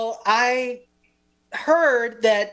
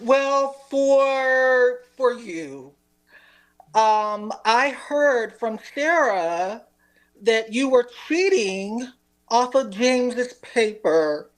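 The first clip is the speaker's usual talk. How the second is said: very sad. Acted. Teacher accusing a student of cheating, very sad. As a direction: play it sad, with pauses between phrases. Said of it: "we're all very sad".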